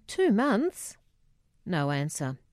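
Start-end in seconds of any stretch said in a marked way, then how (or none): 0.1-1.0 high, shocked disbelief; shocked question. Acted. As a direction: gasp out the question in alarm. Daughter hears father's prognosis.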